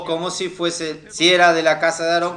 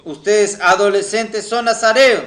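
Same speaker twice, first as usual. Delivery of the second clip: raised preaching voice, building louder; emphatic declaration; 3 semitones higher, 5 dB louder than usual. Real, not acted. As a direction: proclaim it to the congregation with rising force. Preacher declares teens are Nazirites. (declaración enfática de predicador)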